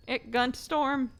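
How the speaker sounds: milder sass. Pretend. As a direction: settle back but keep it slow and sassy. Repeats warning.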